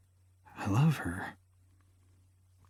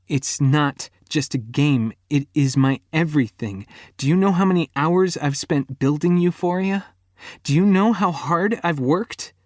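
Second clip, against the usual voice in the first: rising, loud, higher angry rant; furious rant; 5 semitones higher, 3 dB louder than usual. A narrator's reading. Girlfriend raging at him over her game, higher and louder. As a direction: build to an outraged peak.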